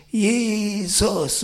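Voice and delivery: calling out Jesus loudly; lauter Ruf. Retold or imitated. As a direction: shout the name with full force. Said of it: "Ich habe richtig laut geschrien". (laut rufend)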